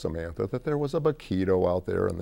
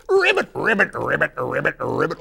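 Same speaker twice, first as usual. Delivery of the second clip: high, loud rolled ribbits; trilled frog call; Beauregard the Frog; 8 semitones higher, 9 dB louder than usual. Acted. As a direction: croak in a quick string. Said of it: "Beauregard the Frog".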